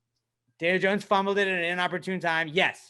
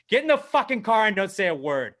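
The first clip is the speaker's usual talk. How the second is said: higher, louder stern dad order; angry dad; 4 semitones higher, 5 dB louder than usual. Retold or imitated. Dad to son after a bad game, imitated angry order. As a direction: imitate a fed-up father barking orders. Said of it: "Your dad's like".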